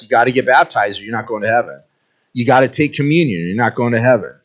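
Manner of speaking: fast, dismissive mock lecture; mocking legalists. Imitating people who say you must be baptized, fast mock. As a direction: rattle off their rules mockingly.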